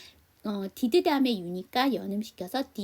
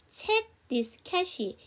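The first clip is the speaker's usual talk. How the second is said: slow model sentence; 7 semitones higher, much slower than usual. Shown as a demonstration. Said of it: "여기 저랑 같이 한번 연습해봐요".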